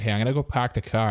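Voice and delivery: fast Boston "park the car"; quick Boston car line; Boston accent. Pretend. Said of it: "someone talking like this".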